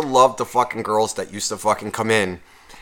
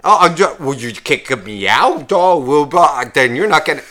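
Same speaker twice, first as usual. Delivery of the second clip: mock indignant girl; 3 semitones higher, 4 dB louder than usual. Mimicking girl being kicked out.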